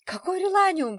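high, loud protesting shout. A narrator's reading. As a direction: shout back in disbelief. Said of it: "кричала Людка". (высокий громкий возмущённый крик)

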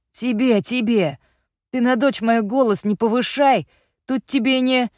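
angry retort. A narrator's reading. Father angrily defends daughter.

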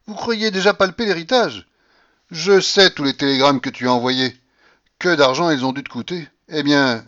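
loud, high, scornful babouchka voice; mock them all like a triumphant old matriarch; imperious old grandmother. A narrator's reading. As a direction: grandmother scoffing at heirs waiting for her death. Grandmother scolds the family.

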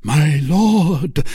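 heated, emphatic accusation; growing excited. A narrator's reading. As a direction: call him out with rising agitation. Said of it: "becoming more excited as he spoke".

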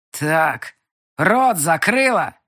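loud, slow growled order; growling. A narrator's reading. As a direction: growl the command. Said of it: "прорычал он".

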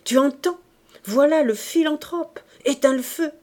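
high, loud urgent orders; excited cry. A narrator's reading. Father warning his wife of the philanthropist, excited cry. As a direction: call it out keyed up and commanding. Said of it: "cria-t-il".

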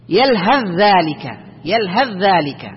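slow "يلهث ذلك", ث absorbed into a doubled ذ; ث merged into ذ. Shown as a demonstration. Teacher models the rule, ث becomes ذ. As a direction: run يلهث into ذلك on one held voiced ذ. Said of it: "وإنما تقول".

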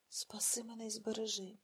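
breathless whisper, unvoiced and soft; whispered prayer. Varya in labour prays to God, whispering. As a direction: pray under your breath in terror. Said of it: "молилась Варя".

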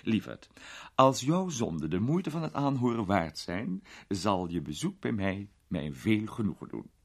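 a hint of a grand old lady, amused; an elderly duchess teasing a young man; lightly voiced duchess, amused.

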